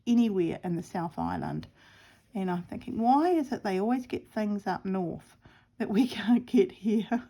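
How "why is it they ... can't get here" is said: mock self-pity; playful whining complaint; woe is me. Real, not acted. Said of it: "woe is me category".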